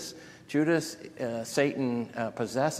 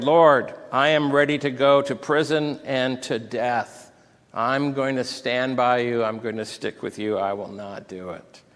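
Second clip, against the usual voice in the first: Peter's insistent promise; bold pledge; 5 dB louder than usual. Acted. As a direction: declare loyalty firmly, starting loud.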